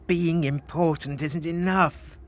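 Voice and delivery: moaning. Acted. Emperor finds importance isn't enough, mildly moaning. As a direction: grumble with a touch of discontent. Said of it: "moaned Frederick".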